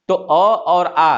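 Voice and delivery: slow अ then आ, the आ held longer; vowel length demo. Shown as a demonstration. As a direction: contrast short अ with long आ slowly. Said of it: "आप बोल के खुद देखिए".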